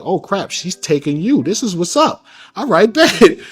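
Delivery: hyped up, can't believe his luck, laughing at the end; excited inner voice. Retold or imitated. Telling the host what he thought when it started, excited and laughing.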